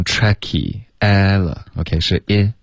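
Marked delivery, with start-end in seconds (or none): 0.0-0.8 "tricky" with its first i lowered towards e; wrong lowered vowel. Retold or imitated. Teacher copies student's slip, "tricky" with lowered i. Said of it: "你现在变成tricky".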